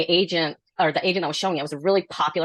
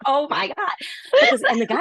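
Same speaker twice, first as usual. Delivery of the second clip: laughing; 12 semitones higher than usual. Real, not acted. Explaining the buyers' exit, laughing hard. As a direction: lose it in laughter. Bursts out laughing mid-story.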